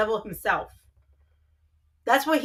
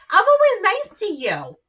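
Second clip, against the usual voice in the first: higher, indignant Jersey protest; 5 semitones higher, 5 dB louder than usual. Real, not acted. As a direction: demand an answer, pitched up. Wife protesting at being mimicked.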